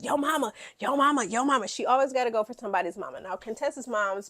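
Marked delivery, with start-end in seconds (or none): 0.0-1.7 mocking taunt. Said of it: "the first thing she does".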